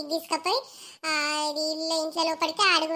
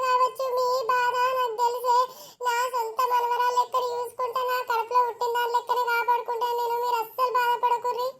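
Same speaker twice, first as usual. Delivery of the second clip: higher-pitched, mournful reassurance; sorrowful consoling; 5 semitones higher than usual. Acted. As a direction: console the weeping parents, pitched high in shared sorrow. Grandmother consoling weeping in-laws at send-off. (బాధగా ఓదార్పు, పై స్వరంలో)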